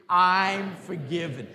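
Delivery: slow, emphatic I'm forgiven; with enthusiasm. Shown as a demonstration. Congregation told to say it with enthusiasm, slow and emphatic. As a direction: declare it with joy, stretching it out. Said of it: "say it with a little enthusiasm here".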